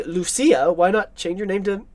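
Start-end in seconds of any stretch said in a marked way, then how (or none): 0.0-0.7 "Lucia" said loo-SEE-ah; Spanish pronunciation. Shown as a demonstration. Citing how the Spanish film says the name, "Lucia" as loo-SEE-ah. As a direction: say "Lucia" the Spanish way, stressed in the middle. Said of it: "they say Lucia".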